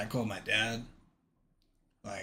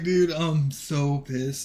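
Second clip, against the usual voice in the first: pissed off; 4 semitones higher, 8 dB louder, much slower than usual. Retold or imitated. Retelling his own anger.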